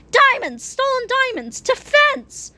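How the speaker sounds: high, exasperated spelling-out; exasperated crook. A narrator's reading. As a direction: spell it out to a dim partner.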